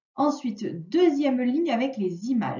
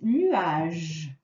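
slow dictation; 5 semitones lower than usual. Shown as a demonstration.

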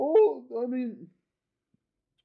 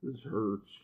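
pained groan; 16 dB quieter than usual. Pretend. Groaning in pretend pain.

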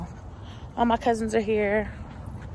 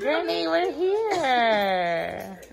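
calling to granny; 4 semitones higher, much slower than usual. Real, not acted.

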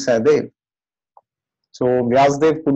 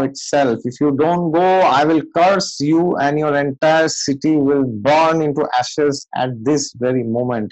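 furious sage; 3 semitones higher, slower than usual. Retold or imitated. Vyasdev scolding the Kurus at the city gates, furious shout. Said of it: "Vyasdev was furious".

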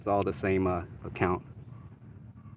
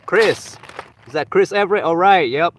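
excited; 5 semitones higher, 12 dB louder than usual. Real, not acted. Announcing the giveaway winner.

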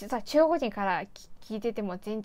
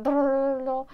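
rolled r trill; 3 semitones higher, 5 dB louder than usual. Shown as a demonstration. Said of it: "音がめちゃくちゃ欲しいんですよ。".

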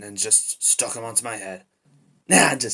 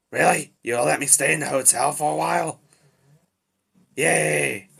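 raised pitch, hopeful delight; pleased, higher-pitched excitement; happily surprised; 4 semitones higher, 3 dB louder than usual. Acted. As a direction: brighten up at being allowed to stay. Learns he can stay.

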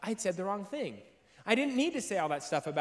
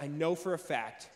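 hushed certainty; 6 semitones lower, 10 dB quieter than usual. Retold or imitated. Retelling his night-time certainty.

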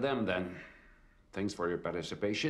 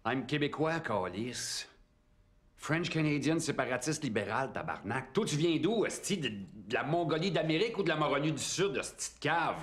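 angry Québécois rant; 7 semitones higher than usual. Acted. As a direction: blast him with Québécois curses. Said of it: "Okay, that was not French".

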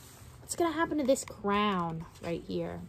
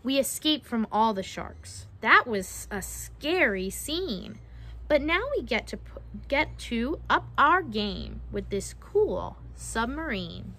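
measured picture-book storytelling; reading to children; slower than usual. Acted. Narrator reading a mermaid-trapping rhyme to children, storytelling. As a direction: read it out with a lilting rhyme.

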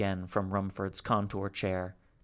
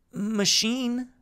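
high, louder alien machine voice; a small high creature; Salo; 13 semitones higher, 6 dB louder than usual. Acted. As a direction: Salo speaking haltingly. Salo's voice.

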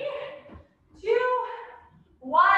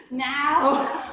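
laughing; 4 semitones lower, 4 dB louder than usual. Real, not acted. Laughs at own joke.

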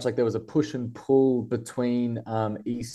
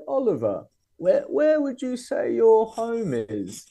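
put-on raised, slow quoted voice of an elderly writer; older man voice; 12 semitones higher, slower than usual. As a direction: lightly voice a gentle old man asking. Retelling friend's question.

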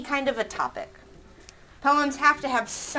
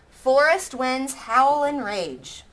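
slow, louder syllable count; first syllable count; 4 semitones higher, 6 dB louder, slower than usual. Shown as a demonstration. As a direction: beat out each syllable slowly. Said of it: "some of these aren't quite right".

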